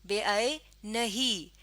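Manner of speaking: بے عینی slowly in parts, "be-ai... nahee"; slow demonstrated reading. Shown as a demonstration. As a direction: say بے عینی slowly, pausing after "ai". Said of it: "جزم آ جائے گی". (بے عینی ٹھہر ٹھہر کر)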